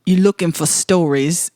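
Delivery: attempted Irish accent, reading a letter; lightly put-on Irish voice. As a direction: amateurish Irish lilt. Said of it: "do I need to do a voice for him".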